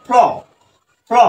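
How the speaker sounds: ফ্ল as one syllable, f running into l; blended consonants. Shown as a demonstration. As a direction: demonstrate ফ্ল with no vowel between f and l. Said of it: "আমরা যদি যুক্ত করে দেই".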